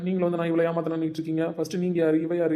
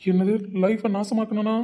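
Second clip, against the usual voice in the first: higher, slow, taken aback; incredulous; 5 semitones higher, slower than usual. Acted. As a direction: throw it back in disbelief. Stranger accused of ruining her life. (அதிர்ச்சியோடு நம்ப முடியாமல்)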